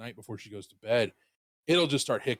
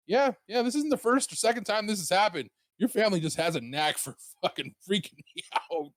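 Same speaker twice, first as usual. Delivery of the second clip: exasperated; 6 semitones higher than usual. Retold or imitated. Retold reply to uncle's knock.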